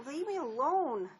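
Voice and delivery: upset and building to a cry; angry dismissal. Acted. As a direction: order him out. She drives him away.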